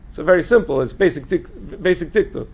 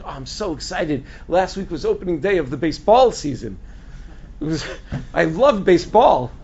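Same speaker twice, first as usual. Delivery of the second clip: mock foreign accent, stressing baseball oddly; non-American accent. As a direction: imitate a non-American speaker gushing about baseball. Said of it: "the person's obviously not American".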